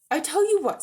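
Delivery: donkey chirping up with an idea; bright donkey. Acted. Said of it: "said the donkey brightly".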